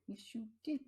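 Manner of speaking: soft whispered teasing pet talk. Real, not acted. Teasing her cat for interrupting, whispered. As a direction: hush it to the cat playfully.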